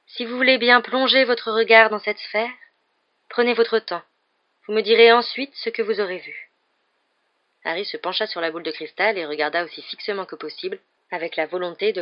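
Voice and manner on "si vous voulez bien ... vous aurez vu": mystic seer. A narrator's reading.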